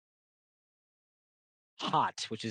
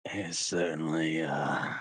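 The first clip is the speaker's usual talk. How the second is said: lightly voiced schemer, taking his time; sly sword character; 2 semitones lower than usual. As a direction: draw it out with deliberate pauses. Game master voices a character.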